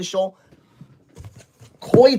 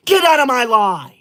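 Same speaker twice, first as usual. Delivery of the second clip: angry shout; 3 semitones higher, 3 dB louder than usual. Real, not acted. Streamer to gift spammer, angry shout. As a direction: yell it, loud and furious.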